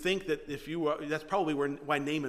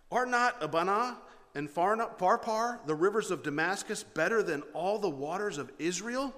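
indignant reading; 6 semitones higher, 4 dB louder than usual. A narrator's reading. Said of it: "went away in a rage".

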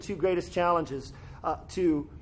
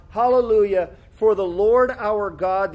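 proclaimed hallelujah; 6 dB louder than usual. Acted. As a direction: ring it out like thunder. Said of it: "crying out".

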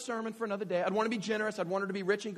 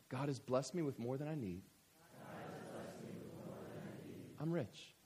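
congregational recitation; 5 semitones lower, 9 dB quieter than usual. Shown as a demonstration. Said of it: "one more time".

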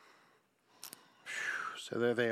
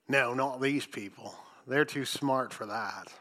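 dry, understated sarcasm; deadpan mock praise; sarcastic; 4 semitones lower, 3 dB quieter than usual. Real, not acted. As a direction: toss it off low with quiet irony. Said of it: "I say that sarcastically".

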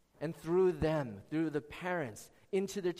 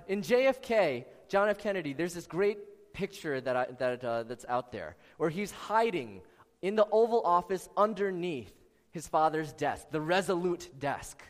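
projecting louder over the room; speaking up; 3 dB louder than usual. Real, not acted. Preacher raising his voice over a fire alarm, louder. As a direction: push the voice out so the back row hears. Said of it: "I'll speak louder".

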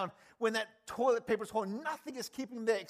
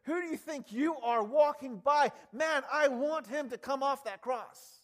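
mocking taunt; 6 semitones higher, 5 dB louder than usual. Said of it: "they shake their head going".

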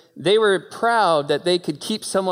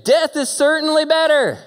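much higher, loud anguished cry; despairing Jonah; 12 semitones higher, 6 dB louder than usual. Acted. Preacher voicing Jonah wishing for death in the heat. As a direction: wail it like a prophet wanting to die. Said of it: "he says it again".

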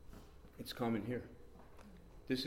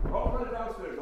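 high, louder retold command; re-enacted excited call; urgent prompting; 12 semitones higher, 6 dB louder, slower than usual. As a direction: call it out suddenly, pitched high. Acting out an urgent prompting he hears.

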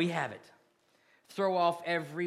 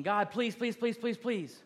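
lightly hammed-up begging, pitched higher; mock pleading; 6 semitones higher, 3 dB louder than usual. Preacher mocking a begging prayer, mild pleading. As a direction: whine please at God like a beggar. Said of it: "nobody's pleading".

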